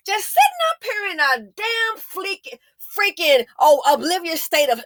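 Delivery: high, exasperated angry rant; real frustration pushing the voice up; infuriated yelling. Real, not acted. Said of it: "I don't mean to be yelling like this".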